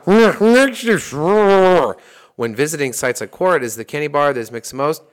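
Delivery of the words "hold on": sudden loud "hold on". Real, not acted. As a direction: cut in loudly to stop them. Sudden interruption to check fact.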